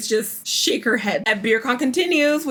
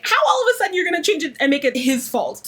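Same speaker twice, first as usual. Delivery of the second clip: indignant; 6 semitones higher than usual. Real, not acted. Host's indignant reaction to her claim.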